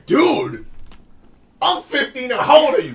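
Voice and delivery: mock the old guy's outrage lightly; old man. Imitating the angry customer to roommates, mildly.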